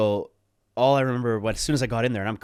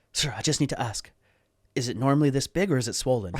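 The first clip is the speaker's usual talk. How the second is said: shy nurse, laughing; 3 semitones higher than usual. Retold or imitated. Nurse voiced, speaker laughing.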